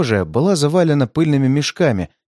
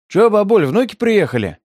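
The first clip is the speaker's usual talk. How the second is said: thug voice; 7 semitones higher than usual. A narrator's reading. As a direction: sneer it at the old lady. Thug mockingly addresses the granny.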